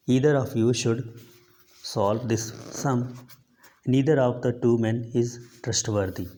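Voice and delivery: each word read out very slowly and evenly; slow dictation reading. Shown as a demonstration. Teacher reading an example to the class, slow and deliberate.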